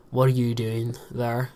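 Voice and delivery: slow, relaxed question; lazy casual speech. Shown as a demonstration. Vlogger showing his talk with friends, lazy. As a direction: ask it lazily, without careful pronunciation. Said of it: "I kinda get lazy".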